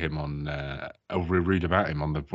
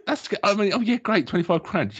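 sarcastic; 13 semitones higher than usual. Retold or imitated. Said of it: "you'd be like".

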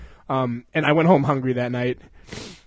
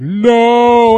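firm no; 7 semitones higher, 9 dB louder than usual. Retold or imitated. Zach's firm refusal.

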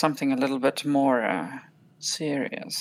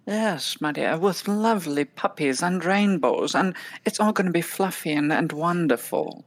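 soothing humouring. Acted. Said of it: "I'm gonna say".

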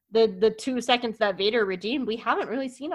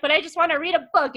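whiny plea; 7 semitones higher, 5 dB louder, faster than usual. Retold or imitated. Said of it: "he's like".

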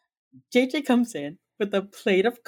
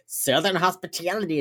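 mock Southern vowels; bad Southern accent; 3 semitones higher than usual. JJ making her cookie joke, bad Southern accent. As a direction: imitate JJ's badly faked Southern accent. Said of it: "She does the worst Southern accent".

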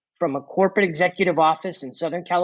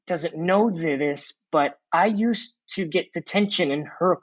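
lightly imitated nervous stutter, tripping over first words; halting retelling of a shaky girl's speech; broken, stuttering voice. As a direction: stumble gently into it, repeating first sounds. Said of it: "in a broken, raspy voice, uh, stuttering".

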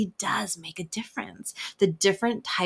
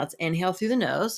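guided breath cue. Shown as a demonstration. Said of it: "let's just do it right now".

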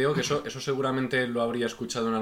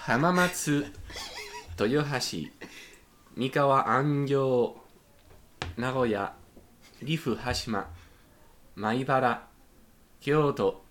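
put-on Japanese accent; 3 semitones higher, slower than usual. Reading the Tokaido stations to his co-hosts in a mock Japanese accent. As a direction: announce each stop like a proud Japanese conductor. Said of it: "leer en acento de Tokio".

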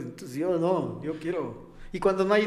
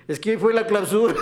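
put-on town drunk; 4 semitones higher, 7 dB louder than usual. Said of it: "de un borracho que".

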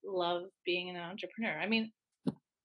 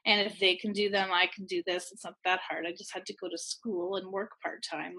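deliberate self-talk. Retold or imitated. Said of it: "saying to myself very deliberately".

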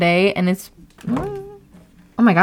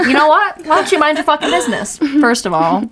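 higher-pitched, sassy retold comeback; playfully put-out telling-off, no shouting; mock indignation; 6 semitones higher than usual. Retelling comeback to nosy coworker at work, mock indignant. Acts snapping back at coworker.

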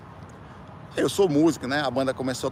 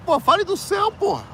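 indignant outburst; 10 semitones higher than usual. Real, not acted. Ranting at churches that badmouth others, in an indignant outburst. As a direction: demand it, fed up.

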